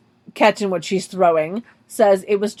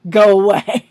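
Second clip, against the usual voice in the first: slow, loud, brushing it off; drawn-out mean dismissal; dismissive; 6 dB louder, slower than usual. Pretend. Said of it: "my legit answer would have been like".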